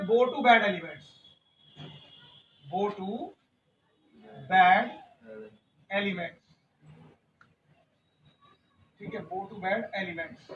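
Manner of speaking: bow to bad elements, each word set apart by long pauses. Shown as a demonstration. Teacher spacing the phrase bow to bad elements for the class, word by word. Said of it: "teacher spells phrase with pauses".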